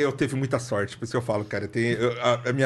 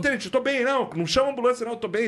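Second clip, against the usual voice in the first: mock reassurance; 8 semitones higher, faster than usual. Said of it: "Eu falei".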